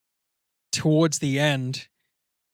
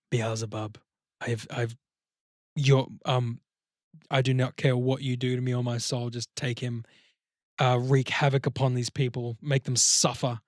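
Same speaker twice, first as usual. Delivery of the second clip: biblical, poetic surrender. Acted. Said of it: "something almost biblical and poetic".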